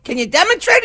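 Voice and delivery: high, eager wife voice; wife intrigued by the robot. Acted. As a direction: ask it with bright curiosity. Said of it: "His wife says".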